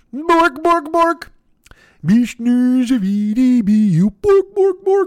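high, Swedish-sounding puppet nonsense babble. Talking to someone on the phone, doing the Swedish Chef voice. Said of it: "talk like the Swedish chef".

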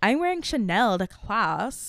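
put-on slow California girl drawl. Describing a film's main character, imitating a california girl voice. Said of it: "she has a kinda California".

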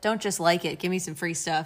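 ordinary talk

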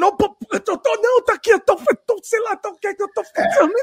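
high, stumbling, stammering speech. Acting out a past answer to the old lady who startled them, retelling own stammering.

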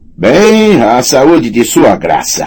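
cheerful, sing-song, swooping shout. Raising his mug at the table, a character calls a toast: shouted cheerfully. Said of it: "gritou alegremente".

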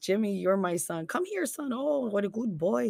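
put-on Minnesota accent, soft and high. Acting out banter with someone from Minnesota: imitating a Minnesota accent. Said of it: "So like we talk like that all the time".

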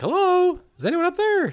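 cartoon voice, very high, loud and sing-song. Retelling a bathroom routine, voicing the toilet: put-on talking toilet voice. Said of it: "the toilet has a voice".

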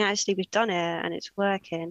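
ordinary delivery

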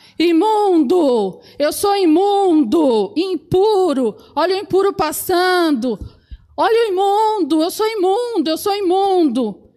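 high, mild, drawn-out calling cry. Speaker tells listeners how a leper had to cry out on the road, retelling a loud shout. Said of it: "ele tinha que gritar".

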